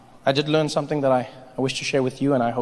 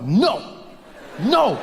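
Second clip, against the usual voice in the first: raised, forceful refusal; firm command; 6 semitones higher than usual. Retold or imitated. Comic refusing to let his body vomit, firm command. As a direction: order your own body to stop.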